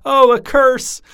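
high, gleeful exclamation; queen overcome with mirth, high and gleeful; delighted queen. A narrator's reading. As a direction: squeal it with delight.

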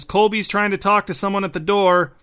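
moderately loud, high-pitched announcement through the house; girl shouting. A narrator's reading. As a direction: call it out to mom like a young girl. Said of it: "shouted the slightly taller of the two girls".

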